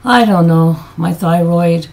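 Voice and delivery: ordinary talk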